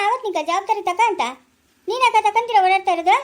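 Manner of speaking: scolding. Acted. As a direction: scold him for shirking his duty. Scolding a father shirking responsibility. (ಗದರಿಸುವ ಏರಿದ ದನಿ)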